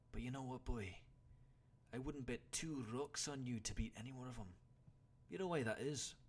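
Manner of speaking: loud, high incredulous start, then easing a little; old warrior lecturing his pupil; exasperated. A narrator's reading. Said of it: "took on a slightly exasperated expression".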